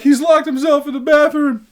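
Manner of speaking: high put-on woman's voice; mock distraught girlfriend. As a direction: imitate a hysterical girlfriend tattling.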